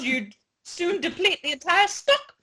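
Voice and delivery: hammed-up reading. Narrating growing towel greed to co-host, hammed-up high voice. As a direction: voice climbing high.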